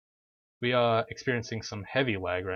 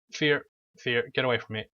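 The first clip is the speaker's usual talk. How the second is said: frightened yelps, then snapping; panicked then annoyed; fear turning to anger; 3 semitones higher, 3 dB louder than usual. Real, not acted. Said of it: "That was too scary".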